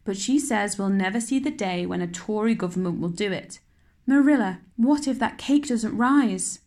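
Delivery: fretful chatter over the cake; a hint of a worried girl fussing over her cake; anxious young girl. Anne chattering anxiously about the cake.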